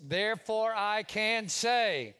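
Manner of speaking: preaching. Acted. Declaring the creed.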